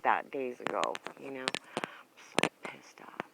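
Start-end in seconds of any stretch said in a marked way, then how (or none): 1.8-3.2 slow, seething whisper to herself; angry whisper. Real, not acted. Fuming alone on camera, a slow furious whisper. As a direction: hiss it under your breath, slow. Venting anger, muttering to herself.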